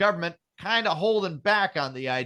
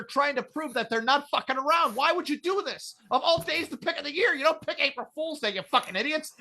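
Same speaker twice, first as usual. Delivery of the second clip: higher-pitched exasperated rant; incredulous rant; 7 semitones higher than usual. Real, not acted. Ranting to friends about the moon launch date, exasperated. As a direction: sound baffled and fed up.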